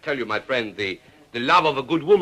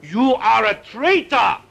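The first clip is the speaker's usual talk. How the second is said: theatrical indignant outburst, rising to a shout; mock outrage; 9 semitones higher, 4 dB louder than usual. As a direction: play the offended Frenchman, loud. Wine lover outraged at whiskey.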